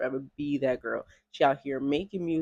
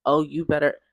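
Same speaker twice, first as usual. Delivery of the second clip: mock sassy talk; 7 dB louder than usual. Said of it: "she was talking like this with her hands".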